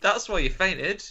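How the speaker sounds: a hammed-up doctor calling her a silly idiot; mocking doctor voice. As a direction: sent up like a careless GP on the phone. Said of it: "she's on the phone to the doctor saying".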